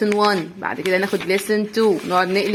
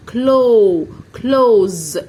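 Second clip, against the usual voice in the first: loud model word; 6 dB louder than usual. Shown as a demonstration. Teacher calling out close for the class. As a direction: close said louder, with a z sound. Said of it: "واللي هي كلمة".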